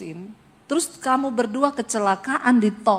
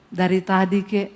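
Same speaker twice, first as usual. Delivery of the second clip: deadpan Solo husband; 4 semitones lower than usual. Retold or imitated. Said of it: "Orang Solo tanpa ekspresi".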